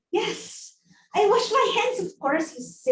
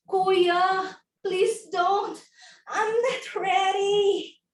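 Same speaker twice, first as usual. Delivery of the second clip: coy pleading; 4 semitones higher, slower than usual. Acted. Acted plea to delivery man.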